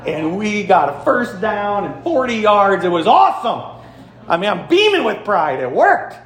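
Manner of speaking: thrilled coach reliving a win; proud excitement. Retold or imitated. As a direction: relive the winning play, beaming with pride. Coach relives his play working.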